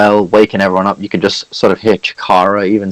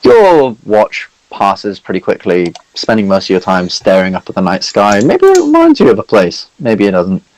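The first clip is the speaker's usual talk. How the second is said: game master narration. Acted. Game master scene setting.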